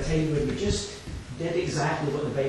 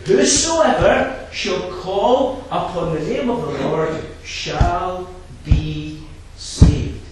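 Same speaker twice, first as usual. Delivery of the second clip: full-force preaching; 4 dB louder than usual. Acted. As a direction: drive the verses home from the pulpit.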